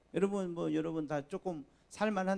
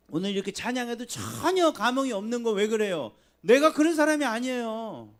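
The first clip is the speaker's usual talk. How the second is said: louder, higher fervent preaching; preaching at full force; 8 semitones higher, 11 dB louder than usual. Acted. Pastor confronting the congregation, fervent loud preaching. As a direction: drive each line home from the pulpit.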